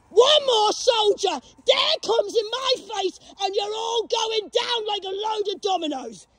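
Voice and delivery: furious warning yelled at soldiers; angry ranting shout. Real, not acted. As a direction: bark the threat at them.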